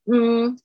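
"嗯" as a held "ng" hum; velar nasal "ng". Shown as a demonstration. Teacher demonstrates the NG sound, held nasal "嗯". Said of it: "舌根抬起".

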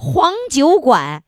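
slowly sounding out 黄酒馆; repeating it back, slow and careful. Shown as a demonstration.

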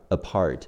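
"apart" stressed on the PART syllable; light a, then a firm PART in "apart"; stress on second syllable. Shown as a demonstration. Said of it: "注意重音在坡的前面".

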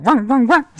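high, loud imitated barking; barking at the dog. Friend barks loudly at a dog tied in the yard, high mock woofs. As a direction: woof it out like calling a dog. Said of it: "上去就对着它喊啊".

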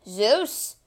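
a big giant's booming challenge; scornful Cyclops voice. Acted. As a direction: roar the name like a scornful giant. Cyclops mocks Zeus.

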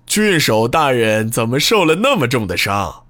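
smug, taunting menace; gloating. Acted. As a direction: relish his misfortune. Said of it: "幸灾乐祸地".

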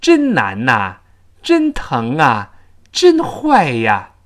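"真难呐", "真疼啊", "真坏呀" as na, nga, ya; emphatic, each final sound carried over; natural linked endings. Shown as a demonstration. Teacher summing up liaison, three linked exclamations. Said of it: "其实也是个连读".

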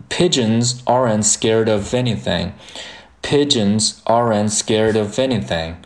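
"pigeons aren't scared of anything" with the words joined; linked pronunciation. Shown as a demonstration. Teacher modelling the sentence's linking, linked pronunciation. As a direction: flap "scared of" and glide v into "anything". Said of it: "那这句话我们的连读就是".

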